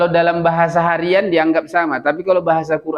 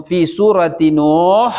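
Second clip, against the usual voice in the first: fi surati Nuh slow and louder; emphatic recitation; 2 semitones higher, 4 dB louder, slower than usual. Shown as a demonstration. Teacher corrects the Arabic case ending aloud. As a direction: lean on surati Nuh slowly. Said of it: "Fi suratin Nuh".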